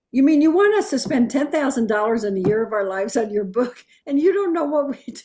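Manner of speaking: lightly replaying an exasperated retort; retold irritation. Publisher retelling her annoyed reply to unprepared authors. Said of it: "That just irritated me".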